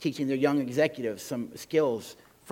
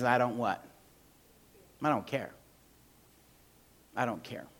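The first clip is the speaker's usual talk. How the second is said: uncaring; 4 semitones lower, 6 dB quieter than usual. Retold or imitated. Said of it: "what we're really saying is".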